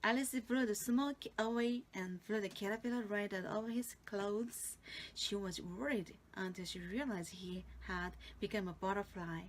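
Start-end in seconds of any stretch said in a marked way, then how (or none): none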